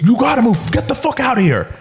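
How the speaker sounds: high, pushy bouncer mimicry. Imitating the bouncer shoving him at the bar, high and pushy. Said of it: "he goes".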